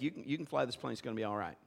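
low, quiet, calming voice of Jesus inside; soft reassurance. Retold or imitated. Jesus inside him reassuring him, low and soft. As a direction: gently tell him he can fly it. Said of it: "he's just like".

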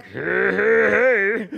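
loud, drawn-out monster noise; menacing opponent. Retold or imitated. Opponent facing the son on the field, monstrous. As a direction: imitate a huge scary lineman. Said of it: "a guy that looks like".

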